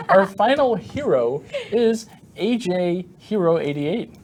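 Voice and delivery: words through laughter; laughing. Real, not acted. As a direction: read the name while giggling. Reading name while laughing.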